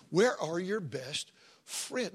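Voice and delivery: very slow, every word weighed; slow emphatic question. Acted. Preacher presses the congregation slowly on their friends. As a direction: drag it out so it sinks in.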